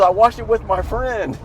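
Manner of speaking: put-on high, eager young man; excited guy voice. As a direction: quote him high and eager. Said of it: "He goes".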